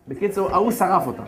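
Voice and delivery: normal talking voice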